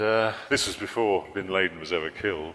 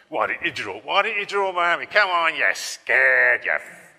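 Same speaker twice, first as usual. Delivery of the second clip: high, loud taunt; mock goading; 7 semitones higher, 8 dB louder than usual. Angry emailers goading the cartoonist, loud taunting. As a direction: build to a drawn-out, loud jeer.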